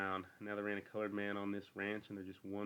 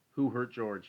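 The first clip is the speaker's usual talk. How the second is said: loud, high, threatening demand; angry demand; 5 semitones higher, 10 dB louder, slower than usual. A narrator's reading. Lenny confronting Crooks, loud angry demand. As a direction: bark it out, ready to fight. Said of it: "he demanded".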